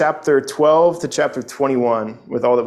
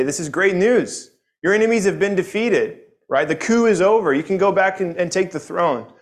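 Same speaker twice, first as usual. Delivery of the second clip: higher-pitched, lightly acted good news; excited retelling; 5 semitones higher than usual. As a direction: retell it as eager messengers. Messengers bring what seems good news.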